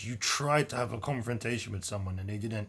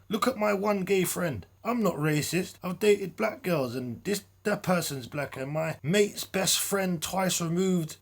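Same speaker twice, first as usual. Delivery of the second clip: mocking typical racist; 7 semitones higher than usual. Mimicking the man's excuses, mocking typical racist. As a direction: parody a bigot's excuses, pitched up. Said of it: "You sound like the typical racist, homophobic guy that says".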